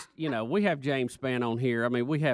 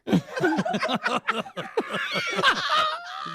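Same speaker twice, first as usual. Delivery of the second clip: groundhog. Pretend. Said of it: "The groundhog sound".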